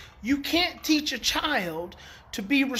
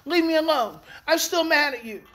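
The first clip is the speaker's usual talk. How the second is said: higher, louder mock sulky kid; sulky child; 5 semitones higher, 4 dB louder than usual. Child snapping back at apologizing parent, mock sulky. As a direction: play the upset child pushing away, a touch louder. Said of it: "And your kid says".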